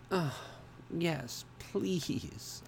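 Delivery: high, soft pleading; begging. A narrator's reading. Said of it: "I begged".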